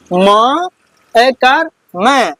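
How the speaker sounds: "म", "ऐकार", then "मैं", each slowly drawn out; teacher slowly building "मैं" from "म" and its vowel sign; spelling out syllable. Shown as a demonstration. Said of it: "इसको पढ़ेंगे".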